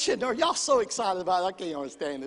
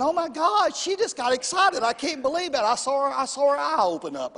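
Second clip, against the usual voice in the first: mild mock amazement; 3 semitones higher, 4 dB louder than usual. Preacher voicing someone amazed by a sleepy churchgoer, mock astonishment. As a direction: lightly act out disbelief, pitch lifted.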